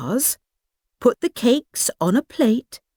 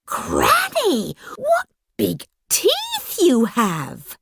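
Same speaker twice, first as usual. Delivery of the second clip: put-on little girl voice; 6 semitones higher, slower than usual. Girl marvels at granny.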